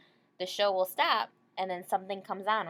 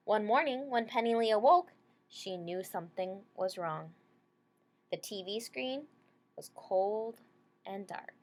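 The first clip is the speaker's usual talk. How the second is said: clear, gentle picture-book read-aloud; reading to children. Acted. Teacher reading a picture book to her class, gentle read-aloud.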